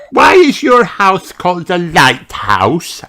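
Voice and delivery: put-on high curious little girl voice; wondering aloud; Peppa asking. A narrator's reading. Peppa asking Grandad Dog, curious high voice. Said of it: "asks Peppa".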